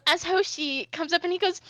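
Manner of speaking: ordinary delivery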